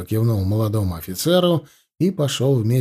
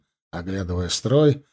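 usual speaking voice

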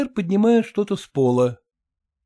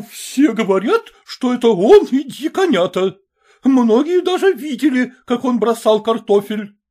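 higher, louder insisting; insistent accusation; 8 semitones higher, 5 dB louder than usual. A narrator's reading. Mother insists to Maternitskaya, angry. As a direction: press the charge.

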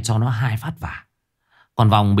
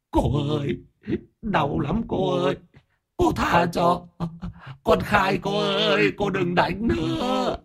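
very high, slow whimpering ghost begging; whimpering plea; 11 semitones higher, 4 dB quieter than usual. A narrator's reading. Beaten ghost begging the aunt, whimpering high and slow. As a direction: sob out the plea to be spared. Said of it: "nó mếu máo".

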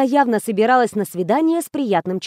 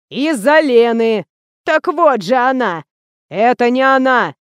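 louder, slow, raised voices; shouting to be heard; 5 dB louder than usual. A narrator's reading. Guard and heroine shout at the deaf actress, loud. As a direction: make a deaf old woman hear.

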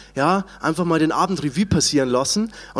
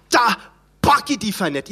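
mild scorn. Retold or imitated. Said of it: "so viel Verachtung und Empörung reingekleckt".

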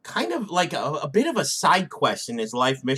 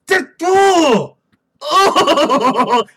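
cracking up; 10 semitones higher, 6 dB louder, much slower than usual. Real, not acted. Breaks into laughter.

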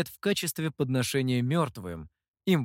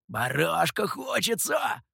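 slow, drawn-out longing; longing cry; 3 semitones higher, slower than usual. A narrator's reading. Mikhou cries out longingly for lamb. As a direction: crave the lamb aloud. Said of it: "потянулся Михоу".

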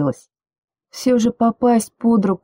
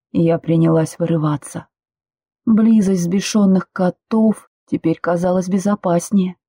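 ordinary delivery

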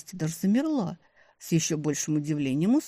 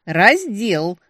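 loud, higher outraged cry; even louder shout; 5 semitones higher, 10 dB louder than usual. A narrator's reading. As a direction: yell it even harder. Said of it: "ещё громче крик".

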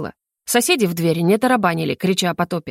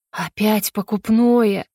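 disapproving; much slower than usual. Acted. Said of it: "осуждающе покачала головой мама".

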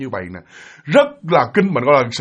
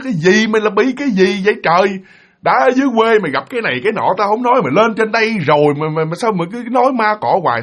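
mildly raised, irritated complaint; exasperated scolding; 5 semitones higher than usual. Retold or imitated. Big brother denies any ghost, mildly exasperated scolding. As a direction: grumble in acted exasperation.

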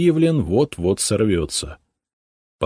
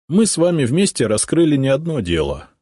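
persuasive; 8 semitones higher, 3 dB louder than usual. A narrator's reading. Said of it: "стараясь быть убедительным".

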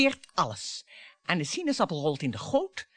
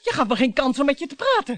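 raised voice; 5 semitones higher, 6 dB louder, faster than usual. Acted. Wife confronts husband, raising voice.

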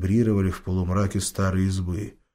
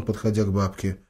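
plain reading voice

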